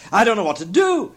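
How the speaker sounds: high, loud, giddy cry; Scrooge, overwhelmed glee. A narrator's reading. Scrooge dressing in a flurry, overwhelmed with glee. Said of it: "laughing and crying in the same breath".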